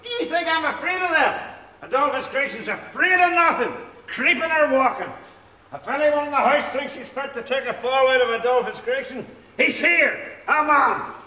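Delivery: slurred, swaggering challenge to the house; sway and brag like a proud drunk; drunken boast. Acted. Drunk husband defying the house, swaggering drunken boast.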